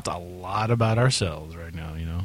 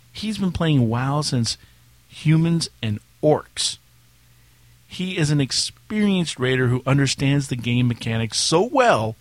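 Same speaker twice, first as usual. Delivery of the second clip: dramatic reading; 2 semitones higher than usual. Acted. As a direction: build up the brother like a trailer hero. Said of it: "You just have to read it dramatically".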